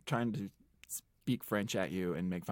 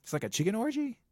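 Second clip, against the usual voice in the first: incredulous; 12 semitones higher, faster than usual. Real, not acted. Incredulous teasing question.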